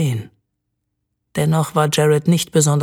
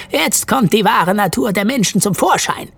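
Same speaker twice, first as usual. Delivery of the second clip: higher, lightly raised elf voice; calling out; 6 semitones higher than usual. A narrator's reading. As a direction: call it out as the elf, with mild force. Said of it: "rief der Blatthornelf". (leicht erhobener Ruf des Elfen)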